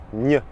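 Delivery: "Gne" as one ny sound; son GN. Shown as a demonstration. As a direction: isolate "Gne", tongue on the palate. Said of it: "comme G N". (« Gne » comme dans montagne)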